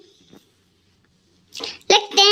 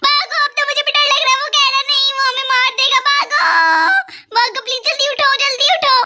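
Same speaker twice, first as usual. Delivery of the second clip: put-on girl yelling at friends to run from the ghost; panicked fleeing; 2 semitones higher, faster than usual. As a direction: hurry everyone out, scared stiff. Kids panic and flee the game.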